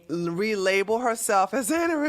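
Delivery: breaking into a laugh mid-word; real laugh cutting off the word; can't keep from laughing. Real, not acted. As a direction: try to say it straight, crack up. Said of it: "can't even say it without laughing".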